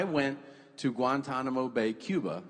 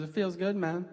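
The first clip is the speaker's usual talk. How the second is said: lightly voiced little kid, higher; mimicked child's casual voice; six-year-old boy; 5 semitones higher than usual. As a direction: imitate a contented small son, pitched up. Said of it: "He goes".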